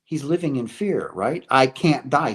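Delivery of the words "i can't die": a louder, mock-terrified cry. Dying professor pleading in fear, louder mock panic. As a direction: push it out in a panic, a touch louder. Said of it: "He's terrified".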